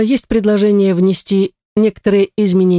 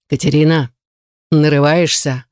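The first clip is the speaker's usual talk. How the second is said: warning; 3 semitones lower than usual. A narrator's reading. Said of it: "предупредил тиран".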